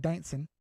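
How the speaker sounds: "dancing" with a dropped g, Southern "dancin'"; Southern pronunciation. Shown as a demonstration. Trader explains how Southerners say it, "dancing" as Southern dancin'. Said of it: "that's how we say it in the South".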